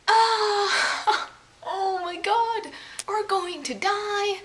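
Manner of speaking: laughing in mock terror; laughing panic. Panicking at the ostrich.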